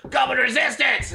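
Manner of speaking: high, loud crowd chant; rallying cry. Acted. Goblin followers echoing their leader, rallying cry. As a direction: cry it out like a band of rebels. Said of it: "all the other guys go".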